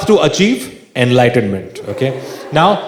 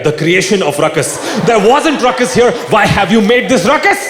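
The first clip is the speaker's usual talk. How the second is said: hammed-up fuss over ruckus; mock ruckus rant; 3 semitones higher than usual. Comedian mocking an Indian doctor's ruckus scolding.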